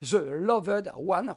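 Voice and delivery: The Loved One drawn out slowly for emphasis; slow deliberate The Loved One; slow title. Shown as a demonstration. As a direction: spell out The Loved One so viewers remember it. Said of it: "retenez bien ce titre".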